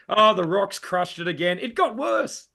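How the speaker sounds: hammed-up wail climbing high; mock dismay. Comedian playing Sisyphus crushed by his rock, mock dismay. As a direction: wail like a comically doomed Sisyphus.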